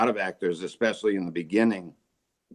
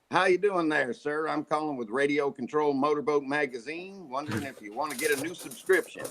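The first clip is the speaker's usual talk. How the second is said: put-on Southern accent; 5 semitones higher than usual. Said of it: "if I was calling the Southern United States".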